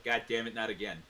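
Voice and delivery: loud exclamation imitating the tour guide; exasperated tour guide. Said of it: "Even the tour guy was like".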